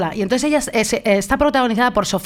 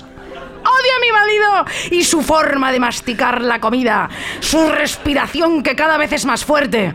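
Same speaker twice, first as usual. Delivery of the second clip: mock murderous housewife; 4 semitones higher, slower than usual. Mock murderous Meryl rant.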